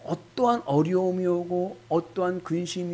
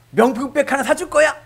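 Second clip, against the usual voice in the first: 신난 남편; 10 semitones higher, 8 dB louder than usual. Pretend.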